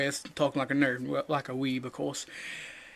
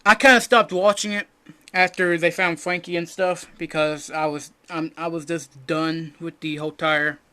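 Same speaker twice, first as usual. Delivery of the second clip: weeb host voice; 3 semitones higher, 8 dB louder than usual. Acted. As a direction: pump it up like an over-eager anime fan. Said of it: "I don't know why I'm talking like this".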